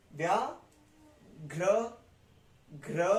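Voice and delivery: slow "व्याघ्र" with gh before r; consonant cluster demo. Shown as a demonstration. Teacher breaking down the cluster, "घ्र" as gh then r. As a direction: isolate "घ्र" after a pause. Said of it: "पहले घ आया फिर र आया".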